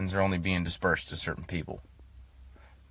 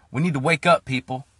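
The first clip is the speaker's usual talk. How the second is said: urgent shout; 4 semitones higher, 4 dB louder than usual. Real, not acted. Urgent call to wake up.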